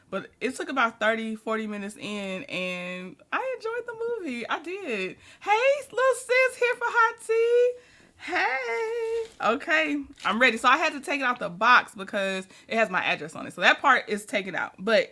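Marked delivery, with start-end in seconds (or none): 5.4-9.5 higher, louder cheery hello; light up greeting your little sis; high, loud welcome to a viewer; excited greeting. Real, not acted.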